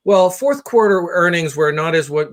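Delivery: lightly voiced businessman on a call, brisk; a hint of a self-important exec talking shop; loud phone businessman. Comedian mimicking a loud guy on a call, mild businessman voice. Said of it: "So it's this kind of talk".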